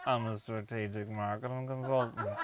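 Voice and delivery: put-on northern English accent, very slow. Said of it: "it's a northern accent, but it's just very slow".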